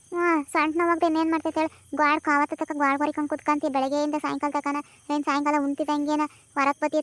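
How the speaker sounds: cheerful granddaughter answering grandma; young village woman. Acted. (ಸ್ವಲ್ಪ ಎತ್ತರದ ಧ್ವನಿಯಲ್ಲಿ ಹುಡುಗಿ)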